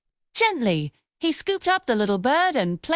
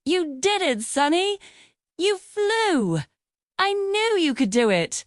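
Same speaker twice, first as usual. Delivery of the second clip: higher, bright cheering for the bird; a boy's delighted little cheer, pitched up; excited cheer; 8 semitones higher than usual. A narrator's reading. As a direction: cheer him on like he just won. Bird flies, boy cheers.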